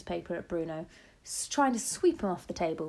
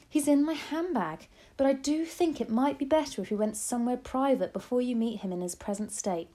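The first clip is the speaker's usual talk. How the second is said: higher, earnest grandmother voice; firm grandmother; 5 semitones higher, 3 dB louder than usual. A narrator's reading.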